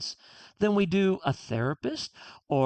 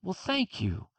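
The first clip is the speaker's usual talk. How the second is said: accepting thanks; 5 dB quieter than usual. Retold or imitated. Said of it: "now I go".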